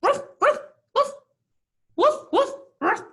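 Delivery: very high, loud yappy woofs; pigs barking like dogs. Acted. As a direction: bark like a little dog. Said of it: "they started barking like dogs".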